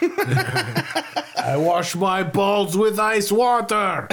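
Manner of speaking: Mister Everest voice. Acted. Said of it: "so much fun to do that voice".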